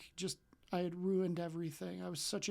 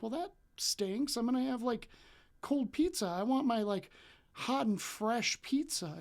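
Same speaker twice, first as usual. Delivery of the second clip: put-on kid whining; 4 semitones higher than usual. A kid complaining to the delivery guy, whiny and high. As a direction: pout it like a disappointed twelve-year-old.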